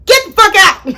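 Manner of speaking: mock furious get out; retold angry order. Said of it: "I took it out on my sister and told her".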